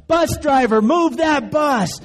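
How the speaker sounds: a big high shout, slow and drawn out; crowd yell. Retold or imitated. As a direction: shout it out like a whole crowd in unison. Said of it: "in unison they'll yell".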